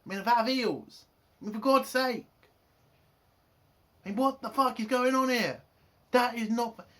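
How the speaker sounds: high, loud, fast exasperated outburst; ranting in outrage over the trial being called a party; indignant rant. Retold or imitated. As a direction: blow up in disbelief at the hypocrisy. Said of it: "He's like".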